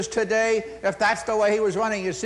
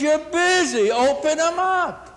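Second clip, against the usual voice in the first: loud, higher, slow boss command; boss ordering; 10 semitones higher, 4 dB louder, slower than usual. Retold or imitated. The boss tells the hostess to open tables, loud command. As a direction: bark it like the boss who wants tables open.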